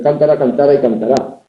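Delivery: cántara, cantara, cantará, stressed one syllable later each time; shifting word stress. Shown as a demonstration. Teacher showing how Spanish stress moves, shifting stress on cántara, cantara, cantará. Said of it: "esa movilidad del acento conlleva diferencias".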